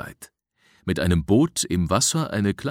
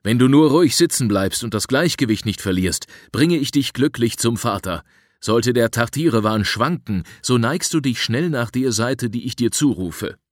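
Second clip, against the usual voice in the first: raised, insistent voice of reassurance; reassuring; 5 semitones higher, 6 dB louder than usual. A narrator's reading. Rescuer coaching the frightened boy on the raft, reassuring. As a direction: instruct him firmly, higher and louder. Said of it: "beruhigte ich ihn".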